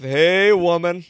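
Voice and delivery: slow, lightly suave greeting; slow pickup line. Pretend. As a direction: drawl it out like a bad flirt. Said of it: "no one's ever led with".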